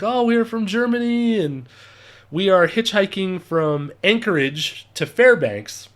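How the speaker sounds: lightly hammed German accent; amateur German-accented English. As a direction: imitate a German tourist's careful English. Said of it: "my terrible German accent".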